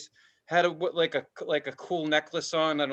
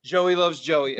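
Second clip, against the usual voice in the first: repeated mantra; 5 dB louder, slower than usual. Retold or imitated. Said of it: "I just kept saying".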